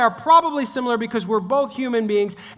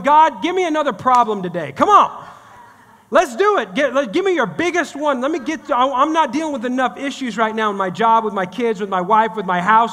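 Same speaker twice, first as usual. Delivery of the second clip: mock eager prayer; 2 semitones higher, 4 dB louder than usual. Preacher mocks a prayer nobody prays, hammed-up eager. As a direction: sarcastically beg God for more problems.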